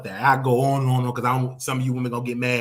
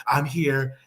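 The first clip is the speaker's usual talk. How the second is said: timid caller. Shown as a demonstration. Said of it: "Uh, I'm here".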